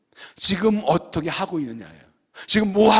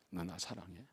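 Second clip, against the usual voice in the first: softer, gentle, almost a breath; hushed question; 11 semitones lower, 23 dB quieter than usual. Acted. Jesus asking the listeners today, hushed and tender. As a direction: let the question hang quietly.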